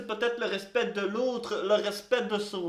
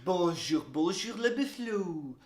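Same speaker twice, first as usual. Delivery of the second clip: low, slow, soft late-night charmer; velvety crooning radio intro; seductive radio host; 8 semitones lower, 8 dB quieter, much slower than usual. Acted. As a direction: seduce the listeners with a hushed, lingering greeting. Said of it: "on n'est pas en train d'animer une émission de charme".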